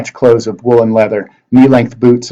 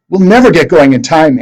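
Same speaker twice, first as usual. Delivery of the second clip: yelling; 6 semitones higher, 4 dB louder than usual. A narrator's reading. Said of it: "Annabeth yelled".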